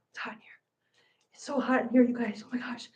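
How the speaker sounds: soft unvoiced whisper. Real, not acted. Streamer whispering to chat about the heat, unvoiced. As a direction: breathe it out under your breath.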